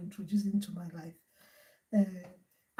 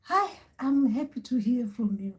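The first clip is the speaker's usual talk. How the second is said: lightly acted fond hello; delighted grandchild; 3 dB quieter than usual. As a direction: greet the ancestor with gentle mock awe. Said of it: "And I'll be like".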